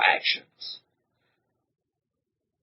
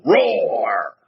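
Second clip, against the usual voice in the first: child's mock roar; 3 dB louder than usual. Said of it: "he'll go".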